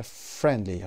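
"friendly" with FRIEND stressed; stress on first syllable. Shown as a demonstration. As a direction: lean on the opening syllable of "friendly". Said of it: "قسمت فر".

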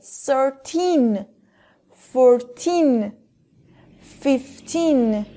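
put-on Thirteen fourteen fifteen with the teen ending said firmly and clearly; strong teen. Shown as a demonstration. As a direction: lean hard on teen at the end of each.

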